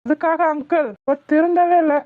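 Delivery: angry protest. Acted. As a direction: confront him, voice rising in anger. Saravana confronts uncle in anger. (கோபமான எதிர்ப்பு)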